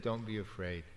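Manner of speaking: soft, gentle reassuring words; gentle reassurance. Retold or imitated. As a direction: ease their fear softly. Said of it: "No, he said".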